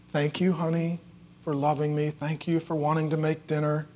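soft, reassuring thanks; tender mother. Retold or imitated. Mom thanking the girl who made dinner, tender. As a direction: speak softly to a well-meaning child.

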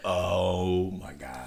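very slow, drawn-out amazement; retold awe. Young fan watching the singer's outburst, slow retold awe. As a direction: stretch it out, quietly stunned. Awestruck fan reacting to the show.

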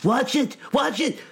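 high-pitched startled warning; calling out. A narrator's reading. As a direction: yelp it out as a sharp warning. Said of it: "Greenie called out".

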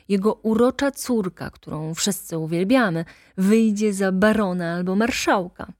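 agitated attorney insisting; excited lawyer. Acted. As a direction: rush to talk him out of it. Lawyer explains Łęcki's ruin.

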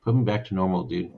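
calm, low-key request. Real, not acted. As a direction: say it matter-of-factly, completely unruffled. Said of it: "He just said it so calmly".

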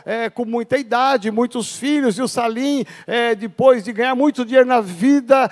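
ordinary talk

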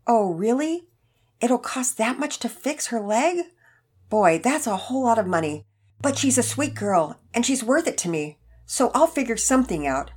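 put-on concerned elderly man. A narrator's reading. Elderly man hearing the vet's price, concerned. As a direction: react with mild dismay, then resolve.

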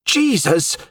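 high, frightened and angry cry of her husband's name of God; scared furious shout. A narrator's reading. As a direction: shout it out in fear and fury. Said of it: "she shouted, scared and furious".

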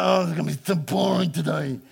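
lightly voiced sulky moaning; mild mock sulk; bored whiner. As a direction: whine about a dull day.

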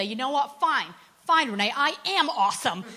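imitating a friend finally admitting it, half-hearted; grudging mock surrender. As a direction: concede it like rolling your eyes. Retold woman grudgingly giving in.

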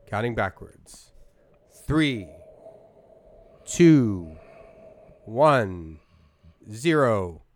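loud spaced-out count; hypnotist countdown. Pretend. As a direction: count him out of trance.

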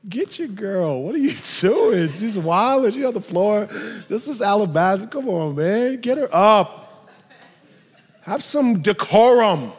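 imitated scandalized onlooker, half laughing; mock disapproval. Acted scandalized Pharisees scolding Jesus.

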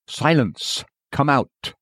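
short, sharp command to an evil spirit; sharp order. Retold or imitated. Jesus orders the evil spirit out, sharply. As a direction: snap the order out firmly. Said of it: "gave the evil spirit short and sharp orders".

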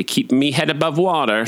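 accidental Cockney accent. Real, not acted. Speaker on medication joking about staying afloat, slight Cockney accent. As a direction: slip lightly into a Cockney accent. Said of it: "why did I just decide to do an accent".

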